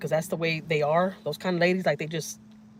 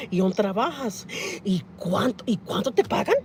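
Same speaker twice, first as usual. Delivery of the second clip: nosy lady voice; 2 semitones higher than usual. Retold or imitated.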